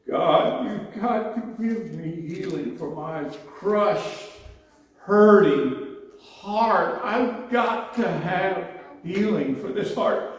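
high, slow pleading cry to God; retold desperate prayer, pitched high and slowed; anguished prayer. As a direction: beg God for healing, voice breaking high.

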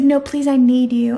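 mock the needy love interest's plea; imitating a pleading book hero; mock begging. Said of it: "begging her to talk to him".

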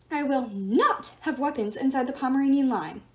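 a fussy schoolteacher laying down rules; lightly voiced fussy teacher. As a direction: announce it like a prim, fussy teacher. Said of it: "he announced in a fussy teacher voice".

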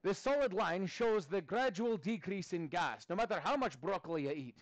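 hint of an ad read; lightly hammed-up ad voice; mock commercial. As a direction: sell it like a gas-relief commercial. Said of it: "like, a commercial for, uh, Gas X".

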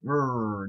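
light, playful "grrr"; mock Hulk growl. Streamer plays the green monster, mock growl. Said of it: "do you ever watch the Hulk?".

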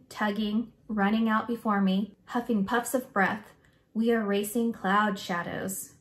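put-on expressive, measured read-aloud for children; story read-aloud. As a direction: read the picture book aloud with feeling.

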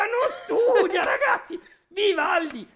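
high, slow, laughing mockery; laughing gloat. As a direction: tease her for not studying.

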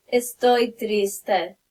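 slow, understated sad reply. Shown as a demonstration. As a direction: answer with a touch of gloom, slowly. Acts out sad answer in example.

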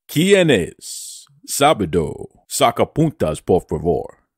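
hammed-up assured Spanish speaker; confident Spanish voice. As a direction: show off word by word, sinking to a deep finish. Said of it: "said it in his confident, deep Spanish voice".

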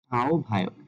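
"আহ্বায়ক" as ao-bhayok; সঠিক উচ্চারণ. Shown as a demonstration. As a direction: say "আহ্বায়ক" without h before bh. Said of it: "সঠিক উচ্চারণটি হবে". ("আহ্বায়ক"-কে আওভায়ক বলা)

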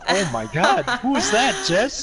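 retold astonishment. Retelling hearing the friend's wife yell, astonished. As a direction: react as if shocked by a voice on the line.

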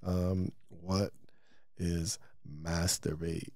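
low, soft, halting word by word; writing while talking. Real, not acted. Podcaster notes the question his kid self asked, soft halting self-dictation. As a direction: murmur it slowly while jotting it down. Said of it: "I have to fucking write".

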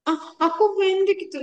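high, put-on whine claiming to be short; whiny excuse. Teacher acting out a short pupil's excuse, high whine. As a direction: play someone dodging a chore by acting short.

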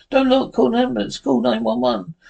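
high-pitched, urgent instruction; urgent alarm. Acted. Bystander calling for an ambulance, urgent and alarmed. Acted emergency, ordering an ambulance.

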